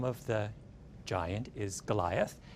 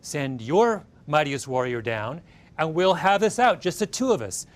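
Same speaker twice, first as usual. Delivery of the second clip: giant's challenge; 3 semitones higher, 6 dB louder than usual. Retold or imitated. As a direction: bellow the challenge at the enemy lines. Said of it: "he calls out and he says".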